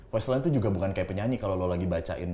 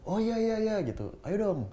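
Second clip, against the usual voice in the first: excited. Retold or imitated. Eagerly agreeing to the offer.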